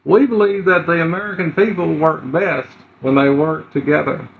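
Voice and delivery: light presidential Clinton delivery; Bill Clinton. Retold or imitated. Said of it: "Yeah, that was Clinton".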